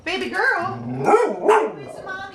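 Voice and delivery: high slow cooing. Real, not acted. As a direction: coo at the little dog. Cooing to dog.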